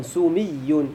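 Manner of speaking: "سمي" slowly as su-MIY-yun; "سمي" low and slow, sumiyyun with i; kasra on the meem. Shown as a demonstration. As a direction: lengthen the ee after the m in "سمي". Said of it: "بكسر الميم".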